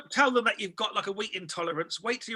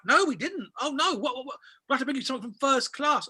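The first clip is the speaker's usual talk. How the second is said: high, hurried apology; imitating flustered attendant; 4 semitones higher than usual. Flight attendant finding the meal missing, imitated high and flustered. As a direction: rush it out higher, mock concerned.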